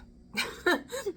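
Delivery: a loud high burst of laughter; a real amused laugh. Real, not acted. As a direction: cackle at your own joke. Laughing at own joke.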